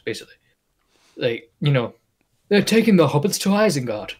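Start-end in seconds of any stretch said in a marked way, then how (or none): 2.5-4.2 raised-pitch elf impression; Lord of the Rings elf. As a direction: put on an elf from a fantasy film. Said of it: "I think of the elves in Lord of the Rings".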